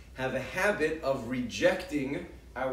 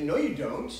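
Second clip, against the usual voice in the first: coaxing parent; 2 semitones higher, 4 dB louder than usual. Retold or imitated. Parent to child insisting she loves her sister, coaxing. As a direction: coax the child into agreeing, lightly mocked. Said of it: "And we say".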